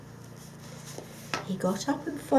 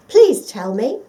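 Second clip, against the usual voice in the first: loud eager begging; eager plea; 3 semitones higher, 15 dB louder than usual. Acted. The dog begging the fox for the secret, eager. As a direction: beg with excitement. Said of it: "asked the dog eagerly".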